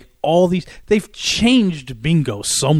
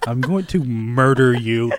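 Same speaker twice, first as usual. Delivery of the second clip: understated mock menace; 3 semitones lower than usual. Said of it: "that's what I'm thinking in my mind".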